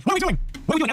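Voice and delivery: squeaky what are we doing; exasperated. Acted. Mock exasperated repeat.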